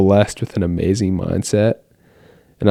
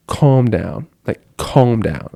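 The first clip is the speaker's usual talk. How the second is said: self-soothing; much slower than usual. Retold or imitated. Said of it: "I have these moments".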